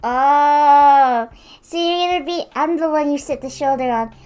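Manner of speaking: loud indignant scolding. Real, not acted. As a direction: tell off the bird who bit you. Scolding bird after bite.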